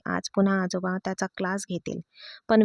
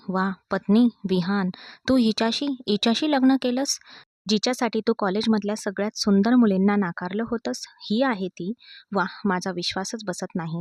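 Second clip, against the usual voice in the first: mocking disbelief. Jealous classmate mocking Vihan's marriage, sarcastic. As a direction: scoff in stunned disbelief. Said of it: "नेहाचा आवाज उपहासात्मक होता".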